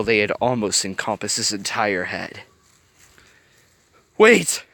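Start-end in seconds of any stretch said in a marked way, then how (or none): 4.2-4.6 desperate high cry of wait; a frightened plea, pitched up; pleading. A narrator's reading. Villain pleads with Riley, in a frightened high cry. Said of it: "Yokai pleaded".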